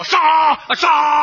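short mock kill cry; bayonet battle cry. Father stabbing with a bayonet, mock battle cry. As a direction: cry out with each bayonet thrust. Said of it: "两刺刀".

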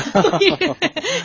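short amused laugh; light laugh. Real, not acted. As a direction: laugh briefly at yourself. Host laughs at cucumber mix-up.

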